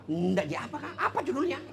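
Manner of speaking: suara istri yang menuntut, meninggi di akhir; istri mendesak. Acted. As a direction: desak suami menyebut judulnya. (istri mendesak suami mengaku, nada menuntut)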